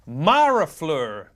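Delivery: "Marafleur" slowly, first syllable as in Mars; Mars-like pronunciation. Shown as a demonstration. Host reads donor's pronunciation note, "Marafleur" slow with Mars sound. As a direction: draw out "Marafleur" with an open "Mar". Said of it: "It's pronounced like the planet Mars".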